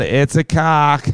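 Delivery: lightly put-on American girlfriend voice; American girlfriend impression. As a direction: gush as an imitated American girlfriend. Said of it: "impersonate his mysterious American girlfriend".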